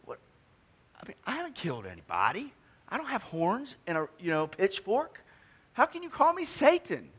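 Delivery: high, indignant mock protest; hammed-up offended Peter, rising to a high squeal; hurt Peter. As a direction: act wounded and baffled. Peter's imagined hurt reply.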